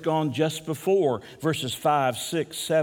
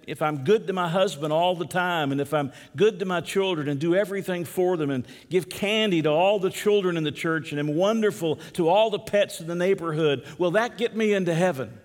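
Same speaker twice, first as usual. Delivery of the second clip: lightly voiced teacher, pitched higher; Sunday school teacher; 4 semitones higher than usual. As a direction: quiz the class, piling up each item in a raised voice. Voices teacher quizzing her class.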